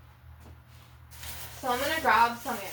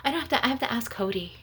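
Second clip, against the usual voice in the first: mocking whiny relative; 4 semitones higher, 5 dB quieter than usual. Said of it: "and they'll be like".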